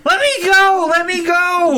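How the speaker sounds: put-on high, loud screaming child; struggling against restraints. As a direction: scream to be let go. Captured kid struggling and screaming.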